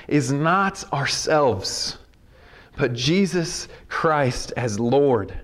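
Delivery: slow, weighty reading with deliberate pauses; scripture reading. Acted. Preacher reading Paul's letter to the church, slow scripture reading. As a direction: read it out phrase by phrase, drawn out. Reads scripture aloud to congregation.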